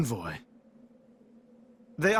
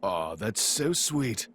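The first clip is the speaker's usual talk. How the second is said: mock sweetness; 12 semitones lower, 4 dB quieter, slower than usual. Mocking a hero's earnest line.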